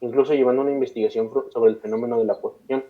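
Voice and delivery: measured read-aloud storytelling; steady podcast narrator reading; scripted documentary narration. A narrator's reading. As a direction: narrate a dark case history from a script. Reads a prepared case account aloud.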